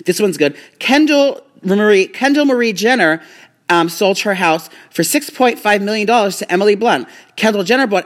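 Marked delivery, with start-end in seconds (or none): 0.8-3.2 announcer shout. Acted. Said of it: "Why are you screaming?".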